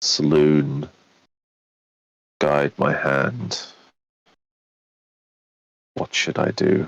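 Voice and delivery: half-whispered stage whisper. Half-whispering a prayer to a holy symbol, rifle in hand: half-whispering a prayer. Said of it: "in a whisper that only I can hear".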